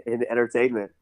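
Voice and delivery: laughing through the words; holding back a laugh; trying not to laugh. Real, not acted. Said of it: "Chase, stop making me laugh".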